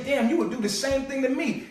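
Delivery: mock call-out. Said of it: "I'ma say".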